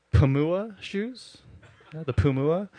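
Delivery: laughing at the name. Real, not acted. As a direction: laugh while reading the knockoff label. Laughing at knockoff brand names.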